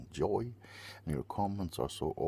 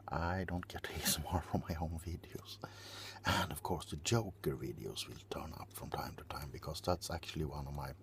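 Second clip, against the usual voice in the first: whispering; 4 dB quieter than usual. Acted. ASMR whisper aside.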